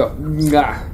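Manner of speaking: kissing smack off the fingers; chef's kiss. Real, not acted. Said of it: "the fucked up chef's kiss to you".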